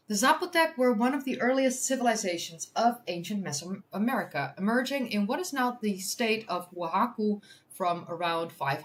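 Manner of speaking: measured news-article reading; article read-aloud. Real, not acted. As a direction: read it out clearly for an audience.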